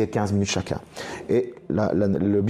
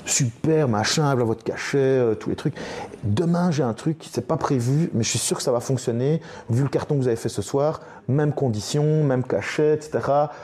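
higher, brighter voice for the club boss; upbeat imitation of the boss; boss quoted; 4 semitones higher than usual. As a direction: play the delighted boss handing out the fee. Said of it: "il dit".

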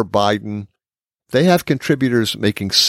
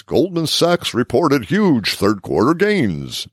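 slow, higher announcer delivery; 4 semitones higher than usual. Shown as a demonstration. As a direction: stretch it out like a ring announcer. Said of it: "This is my announcer voice".

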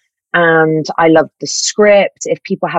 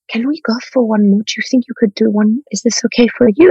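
put-on quick, higher-pitched Swedish-accented coaxing; 5 semitones higher, faster than usual. Director asking actors for one more take, Swedish accent. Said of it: "this is a Swedish accent".

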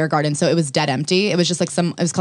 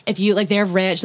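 put-on pick-me drunk woman; slower than usual. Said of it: "in a very pick-me sense".

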